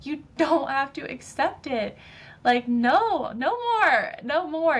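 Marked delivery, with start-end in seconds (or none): 2.4-4.8 high, forceful no more, no more; emphatic no more. Real, not acted. Emphatic refusal in pep talk.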